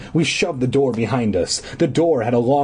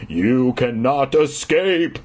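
raging; slower than usual. Acted. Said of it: "the man raged".

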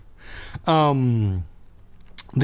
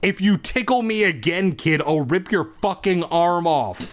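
put-on higher-pitched menacing monster-baby voice; croaking baby; 5 semitones higher, slower than usual. Monster baby threatening the kid who tickles it, croaked threat. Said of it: "She opened her mouth and croaked".

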